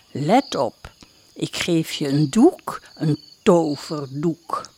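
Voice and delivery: a witch revealing magic. Acted. Witch gives the magic cloth.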